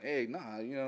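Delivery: light imitation of a Minnesota guy; Minnesota accent. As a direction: toss in a hint of Minnesota accent. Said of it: "this Minnesota A guy".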